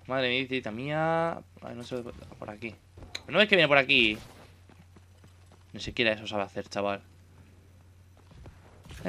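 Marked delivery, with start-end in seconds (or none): 3.2-4.2 louder, fed-up question; real exasperation; exasperated scolding. Real, not acted. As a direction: scold him for missing it. Scolding teammate in game.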